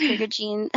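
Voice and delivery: Prigogine said with falling certainty, as a decision; a tentative name, now stated as settled; settling on it. Shown as a demonstration. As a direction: commit to Prigogine with a firm fall. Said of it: "Somebody correct us".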